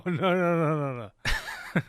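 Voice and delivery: high, loud laughing denial; helpless laughter breaking into the words. Acted. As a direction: laugh through a rapid string of denials. Laughing while backing off a tease.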